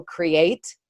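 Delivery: each word set apart by pauses; slow, spaced list. Real, not acted. Outlining the seven things for listeners, slowly. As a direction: list them slowly, one at a time. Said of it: "I'll say 'em slow".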